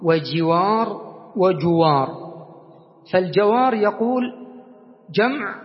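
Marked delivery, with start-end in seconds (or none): 0.0-2.1 وجوار وجوار said slowly, each word set apart; slow contrast of words. Shown as a demonstration. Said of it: "إذن معنا جوار". (نطق بطيء يفصل بين كل كلمة)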